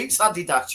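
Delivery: "Adidas" stressed on the first syllable, AD-ee-das; British pronunciation. Shown as a demonstration. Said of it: "say it properly".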